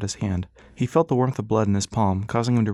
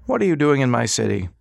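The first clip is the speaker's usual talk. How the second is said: put-on muffled old man through the floor panel; old man heard through metal; 3 semitones higher, 4 dB louder than usual. A narrator's reading. Doctor questioning Ras through the panel, muffled. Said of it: "his voice once again muffled".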